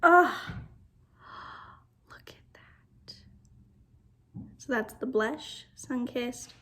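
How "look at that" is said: awed, barely voiced; soft whispered look at that. Real, not acted. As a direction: hush it, slower. Whispered awe.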